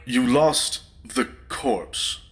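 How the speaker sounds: slow, dry disbelief; flat incredulous echo; deadpan disbelief. Acted. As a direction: drag it out in disbelief. Incredulous at the news.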